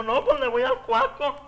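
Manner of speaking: slow mock nasal reply; nasal gangoso voice. The friend picks a card, a slow mock nasal voice. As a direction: drag it out through the nose, slurred. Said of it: "A ver, gangoso, ven pa' acá".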